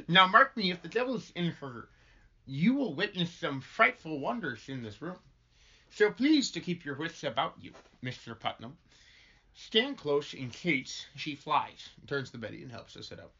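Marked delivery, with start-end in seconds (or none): 0.1-11.9 grave stage warning; portentous, opening firm then settling; solemn minister. Acted. Minister warns Putnam of frightful wonders, portentous.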